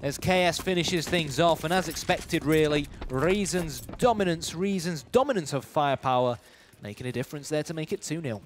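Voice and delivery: round-closing play-by-play. Real, not acted. Esports caster calls the final kill of a round, live play-by-play. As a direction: call the last fight, then wrap up the score.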